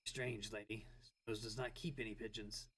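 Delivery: low brooding fake-deep mutter; edgelord voice. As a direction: mutter it dark and moody. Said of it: "Gotta make it my edgelord voice".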